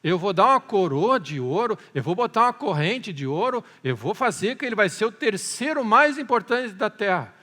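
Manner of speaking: imitating a king's urgent offer; retold shout. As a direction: proclaim rewards as the desperate king, acted out. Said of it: "E ele gritou, dizendo".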